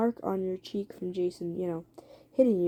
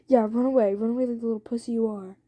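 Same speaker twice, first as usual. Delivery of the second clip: louder jeer, then quicker; angry taunt; 2 semitones higher, 3 dB louder, faster than usual. Acted. Jason jeers at his fleeing partner, angry taunt. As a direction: hurl an acted taunt after them.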